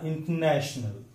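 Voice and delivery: इंटरनेशनल as "in-NASH-nul", NASH leaned on; correct stress. Shown as a demonstration. Teacher applying the rule, stress on NASH. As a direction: say in-tuh-NASH-nul with a light start. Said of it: "third syllable from the last".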